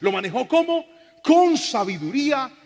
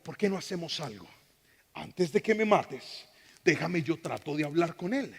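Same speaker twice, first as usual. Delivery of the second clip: calm proposal; 3 semitones lower, 7 dB quieter than usual. Acted. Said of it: "Daniel lo miró y le dijo".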